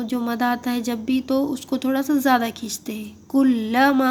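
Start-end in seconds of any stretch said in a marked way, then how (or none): 3.3-4.1 کلما with the last "maa" drawn out slowly; elongated madd. Shown as a demonstration. Teacher showing learners the madd, elongated. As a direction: stretch the final vowel of کلما. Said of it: "تھوڑا زیادہ کھینچیں گے مد کی وجہ سے".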